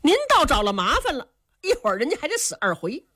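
sneering aside, fast at the end; cold sneer. Acted. The two brothers sneer at Qin Qiong for saving the man. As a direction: scoff at your brother's meddling. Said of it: "两个人冷笑一声".

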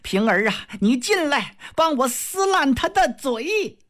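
shrill high angry mistress; enraged mistress calling for help; furious order. Acted. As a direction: scream for Ping'er to tear her up. Wang Xifeng screams at servant.

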